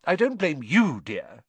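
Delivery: reassuring. A narrator's reading. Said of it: "she assured Harry".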